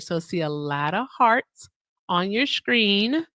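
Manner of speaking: slow, deliberate lot of hearts, every word placed; careful slow repeat after a slip. Shown as a demonstration. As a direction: take lot of hearts slowly so the word lands. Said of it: "since I can't say the word".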